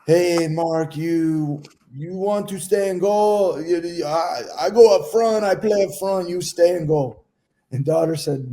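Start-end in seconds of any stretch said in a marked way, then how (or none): 0.1-7.2 light imitation Spanish accent. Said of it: "cue Spanish accent".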